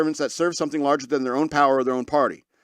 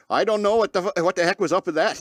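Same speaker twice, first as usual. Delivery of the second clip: mock Canadian accent; 4 semitones higher than usual. Host reading a Canadian witness's quote, in a mock Canadian accent. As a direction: quote read in a light, put-on Canadian accent. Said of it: "I need to do an accent with this quote".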